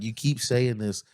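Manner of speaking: slow, deliberate reasoning; measured, drawn-out argument; slow insistence. Retold or imitated. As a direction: spell it out slowly, word by word.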